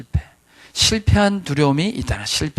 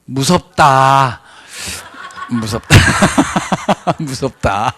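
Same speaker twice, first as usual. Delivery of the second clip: 무섭다 stretched very slowly, syllable by syllable; a very slow, dragged 무섭다 as the standard way; drawn-out flat 무섭다; much slower than usual. Retold or imitated. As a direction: drag out 무섭다 deadpan. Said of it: "다 무서운 걸 뭐라 그럴까요".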